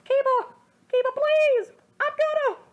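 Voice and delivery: high, loud breathless pleading; panting plea. Acted. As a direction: pant it out high and urgent. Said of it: "panted out".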